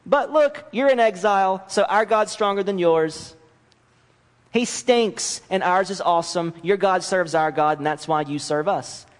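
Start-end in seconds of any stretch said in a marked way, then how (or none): 0.1-7.5 high, gloating schoolyard taunt; mocking boast over the conquered. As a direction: rub it in their faces. Nations taunting the exiles.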